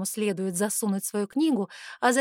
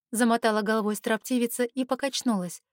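plain reading voice

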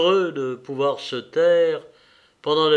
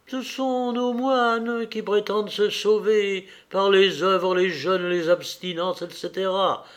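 sovereign contempt; 4 semitones higher than usual. Acted. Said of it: "d'un air de souverain mépris".

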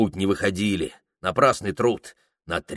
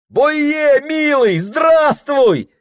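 high, loud cry near tears of joy; joyful cry; 7 dB louder, much slower than usual. Acted. Prokhor greeting the Tungus, near tears with joy. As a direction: cry out as if almost weeping with relief. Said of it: "Чуть не плача от радости, вскричал".

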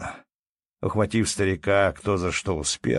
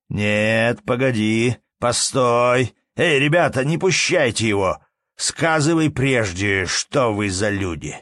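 loud, raised call to halt someone; urgent shouted order; 3 semitones higher, 5 dB louder, slower than usual. Acted. Innkeeper calls peasants to hold the tramp, shouting urgently. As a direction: stop him and rally the others.

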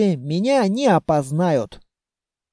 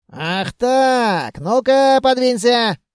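defiant; 5 semitones higher, much slower than usual. A narrator's reading. Carter shoves his barrow past the elves, defiant. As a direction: push past them, voice climbing.

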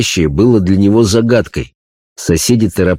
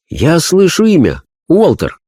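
high, earnest medium voice; a spirit medium describing a vision; seance medium; 8 semitones higher than usual. Acted. Medium hears a name. (голос медиума на сеансе)

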